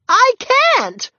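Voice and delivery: very high, loud helpless cry. A narrator's reading. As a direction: cry it out in panic. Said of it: "cried the new neighbor".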